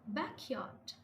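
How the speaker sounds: "back" stressed in "backyard"; stress on first word. Shown as a demonstration. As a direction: hit "back", let "yard" fall. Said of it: "we stress the first word".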